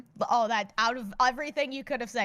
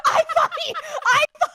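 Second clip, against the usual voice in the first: higher, louder words through real laughter; can barely get it out for laughing; 7 dB louder than usual. Real, not acted. Co-host cracking up at the guest's line, laughing.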